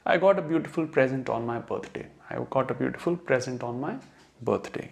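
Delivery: slow example sentences, present said PREZ-unt; noun stress. Shown as a demonstration. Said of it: "इसको आपको बोलना कैसे है".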